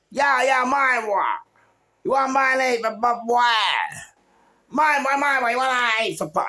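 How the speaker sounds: high, loud put-on voice of a pestering stranger; pushy stranger. Stranger pestering Ian to buy, in a loud high put-on voice. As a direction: play the pushy guy badgering him.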